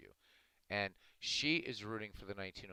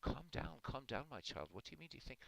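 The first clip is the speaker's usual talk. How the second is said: higher, softer priest voice; hushing a frantic parishioner, pitched up; calming priest; 7 semitones higher, 5 dB quieter than usual. Acted. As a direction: play a priest trying to calm someone down. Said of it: "And the priest says".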